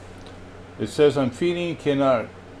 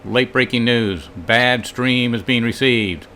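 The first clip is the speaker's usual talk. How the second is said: slow, solemn bulletin read; news announcer; much slower than usual. Pretend.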